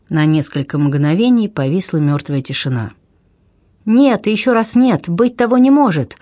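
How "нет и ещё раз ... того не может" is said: high, loud denial bursting out; sudden exclamation. A narrator's reading. Duchess refuses to believe the captain, loud high outcry. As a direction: cry it out higher and louder. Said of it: "вдруг воскликнула герцогиня".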